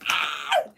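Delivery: a short demo of a piercing shriek; little piercing scream. Shown as a demonstration. Streamer showing how she wishes she could scream, little mock scream. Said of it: "like the little piercing scream".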